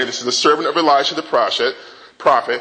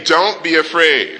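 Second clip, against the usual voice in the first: calm reassurance. Shown as a demonstration.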